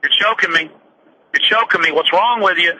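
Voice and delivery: lightly voiced calm protest. EMT tells the choking cops, calmly and evenly. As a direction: say it evenly, keeping control. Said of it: "he's calmly going".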